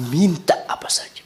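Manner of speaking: hushed inviting whisper. Acted. Preacher inviting the congregation to imagine, whispering. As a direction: whisper it like a secret.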